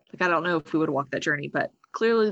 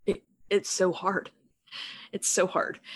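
crying; slower than usual. Real, not acted. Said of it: "I'm sorry, I'm crying".

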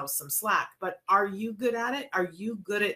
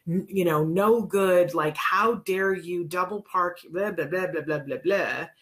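a stranger berating a woman who double parked, retold as a mock angry rant; mock angry tirade. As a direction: lay into her like a stranger in a parking lot. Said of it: "just lined her out and said".

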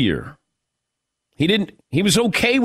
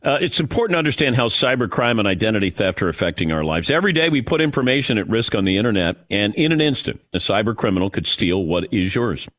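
ad read; 2 semitones lower than usual. Acted. Host reads LifeLock ad.

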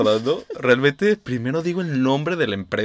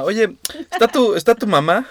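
adult caller voice; 9 semitones higher, 4 dB louder than usual. Retold or imitated. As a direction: ask for mom like a grown-up caller. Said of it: "querían hablar con tu mamá".

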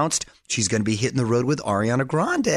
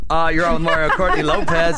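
country accent; 4 semitones higher, 5 dB louder than usual. Real, not acted. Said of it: "I don't know why I have a country accent right now".

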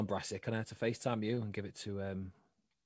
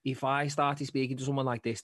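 put-on Scouse, slightly raised; demonstrating a Scouse accent in conversation; 2 semitones higher, 4 dB louder than usual. Shown as a demonstration. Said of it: "speaking like this to someone now".

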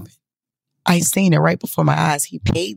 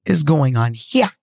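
slow, spaced-out incredulous question; stunned disbelief; slower than usual. Retold or imitated. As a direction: draw out each word in stunned bafflement. Her stunned reaction, acted out.

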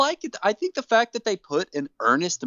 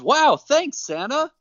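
Hornswoggle voice; 11 semitones higher, slower than usual. Retold or imitated. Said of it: "And Hornswoggle says".

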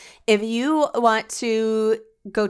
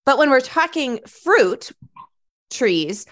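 falsetto on stressed words; 5 semitones higher, 4 dB louder than usual. Real, not acted. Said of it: "My voice goes high when I get excited".

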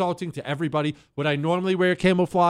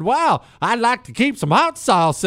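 higher, louder, slow put-on Southern accent; mock Southern accent; 8 semitones higher, 6 dB louder, slower than usual. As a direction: drawl it out in an imitated Southern accent. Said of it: "she busts out this kinda Southern, kinda black accent".

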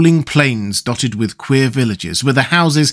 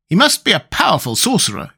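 higher-pitched, impressed exclamation; exclaiming; 7 semitones higher than usual. A narrator's reading. Tin Woodman marvels at the maker of the pills, exclaiming. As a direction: exclaim it in a raised voice. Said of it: "exclaimed the Tin Woodman".

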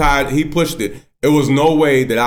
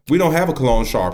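flat denial. Retold or imitated. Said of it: "He said it just like that".

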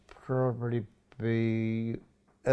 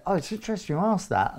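lightly intrigued, higher-pitched reply; gentle reminder; 7 semitones higher, faster than usual. Shown as a demonstration. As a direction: gently feign pleasant interest, pitched up. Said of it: "what we call a gentle reminder".

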